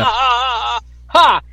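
put-on gloating "ha ha ha"; cocky mock laugh. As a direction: imitate a smug wrestler's laugh. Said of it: "like, cocky".

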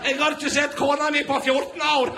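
high, loud mock shout of a wild hermit; wild mountain hermit. Hermit from the goat yells at the TV reporter, high mock shout. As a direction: yell it like a half-mad goat-dweller. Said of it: "Han kommer krypende ut av geita si".

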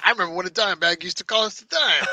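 put-on grumbling old-timer. Jokes as a nostalgic old-timer.

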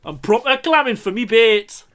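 put-on Geordie accent. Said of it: "in an authentic Geordie accent".

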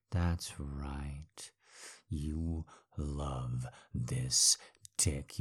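soft whispered praise; whispered approval. Acted. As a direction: breathe it in a whisper. Dominant partner murmurs approval.

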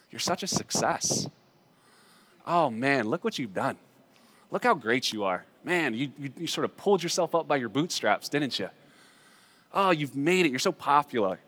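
softly voiced, coaxing praise; mock flattery. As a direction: flatter them quietly, as if tempting them. Acts out seductive flattering name.

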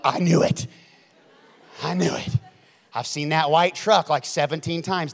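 mock paranoid mutterer, lightly voiced; paranoid person. Preacher voicing paranoid people who feel followed, mock suspicion. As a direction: play a suspicious person confirming their fears. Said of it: "all the paranoid people".

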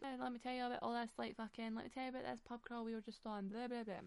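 mock chatty babble. Retelling her own phone chatter.

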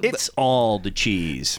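low, slow announcer read; dramatic caption voice. Pretend. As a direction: intone it like a grand slogan. Repeating the mock caption.

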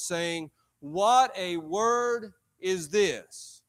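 slow, drawn-out Bible reading; measured pulpit reading, falling away at the end; scripture reading. Acted. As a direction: proclaim the verse, stretching each key word.

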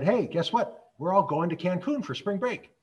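spring the news on mom brightly; imitating an excited teenage daughter. Teen daughter announces trip to mom.

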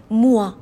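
موا with oi as وا; French oi sound. Shown as a demonstration. Teacher repeating the model word, clear demo.

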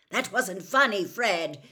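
loud, angry father's telling-off; angry shout. A narrator's reading. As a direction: shout it at your son, furious. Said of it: "he shouted".

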